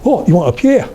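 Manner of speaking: high Geordie "oh" of sudden understanding; sing-song Northumbrian, jumping up in pitch; Northumbrian accent. Acted. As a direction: cafe lady's lilting north-east accent. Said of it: "She went".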